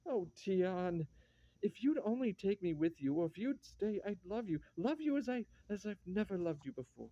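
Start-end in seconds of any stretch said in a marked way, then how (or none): 0.1-5.5 urgent, imploring appeal; fervent pleading. Acted. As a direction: beg with promises of love. Wife pleads through tears.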